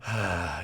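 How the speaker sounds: mock weary exhale; imitated sigh. Storyteller acting out a man's look, imitated sigh. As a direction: let out the man's put-upon sigh. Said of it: "he has this kind of sigh".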